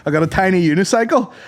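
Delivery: high mock clown patter; hammed-up children's clown. Clown on a tiny unicycle: high mock patter. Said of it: "he'd be like".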